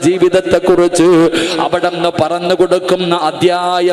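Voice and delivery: loud, sing-song sermon cadence; full-force preaching. Acted. Preacher telling Nafeesa's story to the women, loud sing-song preaching.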